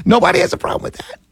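incredulous. Real, not acted. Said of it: "I'm dead serious".

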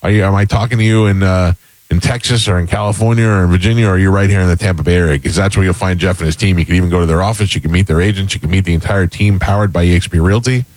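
upbeat live ad read; radio ad read. Acted. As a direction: sell it like a radio host.

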